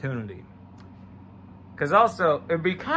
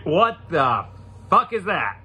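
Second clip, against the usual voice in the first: stunned outburst; shocked; 4 dB louder, slower than usual. Retold or imitated. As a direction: recoil in disbelief. Shocked reaction to huge butt.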